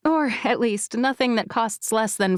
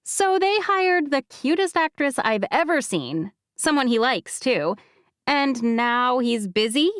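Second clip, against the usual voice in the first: higher, indignant friend; B's voice; 4 semitones higher than usual. Acted. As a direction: call out his excuse.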